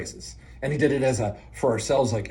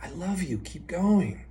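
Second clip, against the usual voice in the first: soft, slightly raised, tender voice; loving encouragement; 5 semitones higher, 4 dB quieter, slower than usual. Shown as a demonstration. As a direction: gently offer love and a little motivation. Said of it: "some love, but some motivation too".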